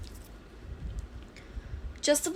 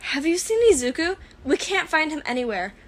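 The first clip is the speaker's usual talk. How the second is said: panicked; 5 semitones higher, 5 dB louder than usual. A narrator's reading. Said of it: "in a bit of a panic".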